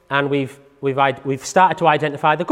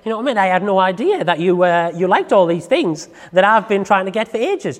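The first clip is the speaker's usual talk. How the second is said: dog's thoughts; 4 semitones higher than usual. Acted. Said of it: "This is what your dog is gonna be looking at you like".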